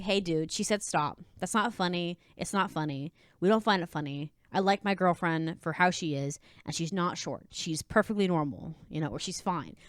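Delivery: lightly deadpan, low-pitched objection. Acted. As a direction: shut the joke down in a low, unamused voice. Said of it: "you say it with a deadpan face".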